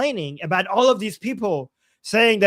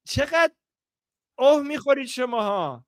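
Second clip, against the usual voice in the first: angry scolding; 6 semitones higher, much faster than usual. Retold or imitated. Acting angry comment.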